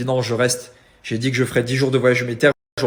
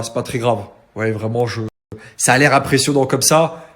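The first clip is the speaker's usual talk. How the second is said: talking through a blocked nose; stuffed-up nasal speech after a broken nose. Real, not acted. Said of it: "c'est parce que j'ai le nez bouché, que je parle bizarre".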